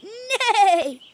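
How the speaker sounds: high, wavering whinny; horse neighing. Pretend. Animal sounds after matching game.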